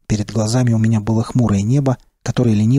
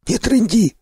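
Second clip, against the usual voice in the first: high, hoarse wheeze; wheezy rasp; 11 semitones higher, slower than usual. Acted. Second stalker wheezes a short rebuke at his partner, hoarse and high. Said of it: "просипел второй".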